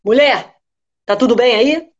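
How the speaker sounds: suspicious husband. Acted.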